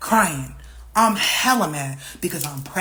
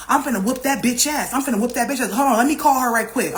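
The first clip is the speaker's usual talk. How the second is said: higher-pitched, fired-up vow; retold angry threat; 4 semitones higher than usual. Friend vowing to go after the sister, retold angry threat. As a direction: promise a fight, all worked up.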